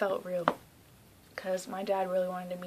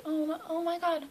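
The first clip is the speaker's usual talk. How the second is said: high, louder imitated gasp of concern; concerned surprise; 8 semitones higher, 5 dB louder than usual. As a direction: act out someone startled by tears. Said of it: "crying, and she's like".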